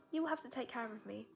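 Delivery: put-on British storybook voice; talking apple with an English accent. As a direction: say it in mock British. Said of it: "using the British accent".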